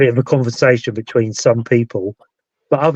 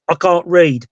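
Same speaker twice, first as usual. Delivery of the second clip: lightly voiced child, higher pitch; hint of a child piping up; child's voice; 4 semitones higher, slower than usual. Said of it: "it's a child's voice".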